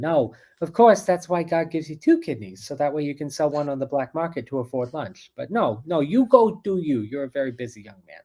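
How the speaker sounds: guilt-tripping Jewish grandma, swooping up then settling; Jewish grandmother. Retold or imitated. Grandma guilt-tripping a busy young man, hammed-up Jewish grandmother voice. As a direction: play a self-sacrificing Jewish grandmother, milking the guilt. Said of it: "the Jewish grandmother thing".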